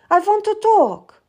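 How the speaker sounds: whispered plea, breathy and close; a secret whispered request; urgent whisper. Acted. Queen begs her to stay.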